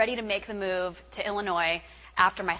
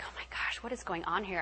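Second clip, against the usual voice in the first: retold anxiety; 8 dB quieter than usual. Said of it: "started getting anxiety".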